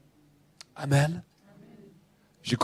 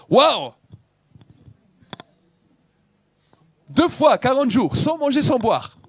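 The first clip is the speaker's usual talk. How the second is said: higher, louder cry of wonder; louder awed preaching; amazed exclamation; 8 semitones higher, 4 dB louder than usual. Real, not acted. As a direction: marvel at the forty days. Marvelling at Moses' fast.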